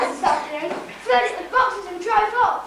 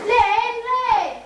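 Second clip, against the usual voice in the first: raised, higher call of a name; 5 semitones higher than usual. Acted. Calling out to Len across the street, raised voice. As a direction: call out to get his attention.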